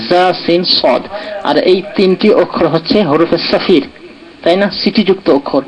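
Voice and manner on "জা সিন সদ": "জা", "সিন", "সদ" আলাদা আলাদা করে আরবি মাখরাজে; জিভের ডগা মিলিয়ে "জা", "সিন", "সদ"; আরবি উচ্চারণ দেখানো. Shown as a demonstration. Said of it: "দাঁতের ডগা মিলিয়ে". (প্রতিটি অক্ষর থেমে থেমে আরবি ধ্বনিতে)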